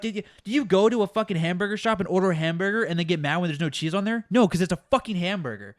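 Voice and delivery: heated, exasperated mock tirade; losing my mind. Barista venting about cheese on hamburgers, losing my mind. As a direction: rant it out, pressing hard on the swear words. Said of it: "And I lose my mind".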